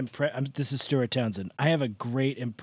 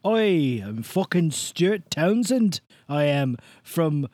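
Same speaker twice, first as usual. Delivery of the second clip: put-on Stuart Townsend, Irish accent; 3 semitones higher, 6 dB louder than usual. Podcast guest posing as a famous Irish actor, Irish accent. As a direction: put on a big, higher, hammed-up Irish accent. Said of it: "Stuart Townsend, the famous Irish actor".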